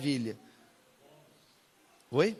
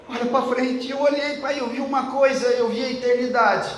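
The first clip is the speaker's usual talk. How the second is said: higher and louder, awed and moved; rapturous retelling; 6 semitones higher, 4 dB louder than usual. Retold or imitated. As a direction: tell it as the daughter overwhelmed by heaven. Daughter's heavenly vision retold. (filha contando a visão, emocionada, mais aguda e alta)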